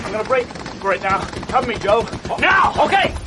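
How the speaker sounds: a movie actor hamming up a shootout, shouting to his buddy; acted battle shout. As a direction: yell it like you're breaking cover under gunfire.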